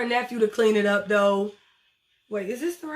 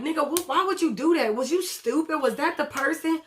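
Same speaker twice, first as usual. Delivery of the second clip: mildly exasperated higher-pitched scolding; retold scolding; 5 semitones higher than usual. Eva scolds him over the gun standoff, exasperated. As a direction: demand an explanation, pitch raised.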